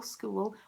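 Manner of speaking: "School" broken into skoo-ul; extra syllable. Shown as a demonstration. Showing viewers the extra syllable, two-syllable "School". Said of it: "Do they add an extra syllable?".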